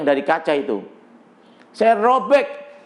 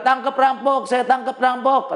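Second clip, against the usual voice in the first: crowd chasing a robber; 4 semitones higher than usual. Retold or imitated. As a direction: imitate pursuers calling out, pitched up. (tiruan seruan massa mengejar rampok)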